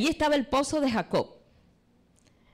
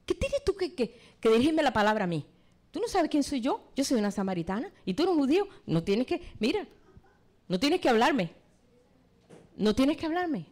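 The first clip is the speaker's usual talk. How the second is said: mock shout; 3 semitones higher than usual. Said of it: "le gritó".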